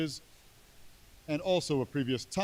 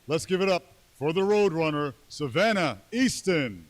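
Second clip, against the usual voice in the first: announcer hype; 3 semitones higher, 5 dB louder than usual. Real, not acted. Announcer introducing player.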